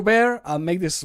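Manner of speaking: ordinary talk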